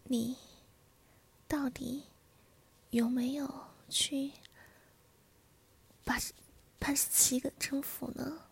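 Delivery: slow, broken-up questioning; close in the ear. A narrator's reading. Wife questioning her husband at his ear, slow and deliberate. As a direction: space the words out, pausing after each few. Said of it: "在你的耳边贴声地说着".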